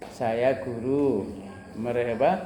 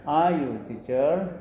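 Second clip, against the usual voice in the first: Are you teacher? slow, rising; slow model question; much slower than usual. Shown as a demonstration. Teacher models the grammatical form slowly. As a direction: spell it out slowly. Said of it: "kalau mau tata bahasa ya".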